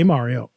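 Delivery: Mario with an open "ah", MAH-rio; standard Mario vowel. Shown as a demonstration. Host telling friends how he says it, open-vowel Mario. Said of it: "say Mario, and everyone would laugh".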